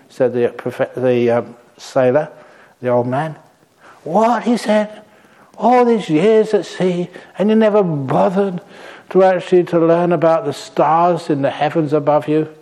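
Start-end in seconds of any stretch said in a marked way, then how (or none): 4.1-12.5 indignant professor. Acted. Professor outraged at sailor.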